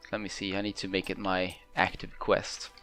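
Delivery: ordinary delivery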